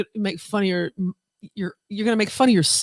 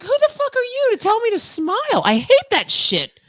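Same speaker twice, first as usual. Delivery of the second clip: mock angry retort; 9 semitones higher than usual.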